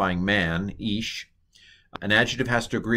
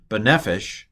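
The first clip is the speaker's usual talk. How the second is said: "Ba Nefesh" with the accent on NEF, falling on esh; stress on second-to-last syllable. Shown as a demonstration. Teacher demonstrating the Hebrew accent rule, stress on NEF. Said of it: "they accent the second to last syllable".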